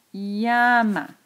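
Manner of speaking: "llama" with LLA drawn out, falling on "ma"; sílaba tónica marcada. Shown as a demonstration. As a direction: stretch the first syllable of "llama". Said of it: "voy a subrayar la sílaba tónica". ("llama" con la LLA alargada y marcada)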